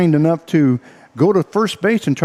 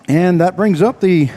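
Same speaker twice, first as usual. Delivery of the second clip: breathless, gasping between words; winded announcer running out of air; out of breath; 3 semitones higher than usual. Real, not acted. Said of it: "I'm out of breath".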